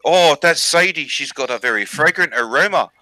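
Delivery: lightly voiced knowing chief with Maori accent. Chief answering his son's test, mock Maori accent. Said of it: "And he goes".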